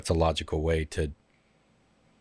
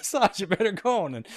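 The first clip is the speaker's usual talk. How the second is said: Sacha Baron Cohen; 14 semitones higher, 3 dB louder than usual. Retold or imitated. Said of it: "consist of him saying the person's name".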